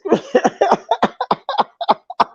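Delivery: high, drawn-out burst of laughter; long laugh. Real, not acted. Streamer amused by the nappy comment, laughing hard.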